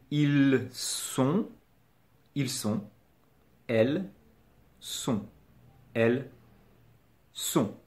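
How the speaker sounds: "Ils sont", "Elles sont" with silent plural s; careful words, gaps between "Elles" and "sont"; model pronunciation. Shown as a demonstration. Teacher modelling plural forms for a learner, careful demonstration. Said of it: "il n'y a pas de liaison".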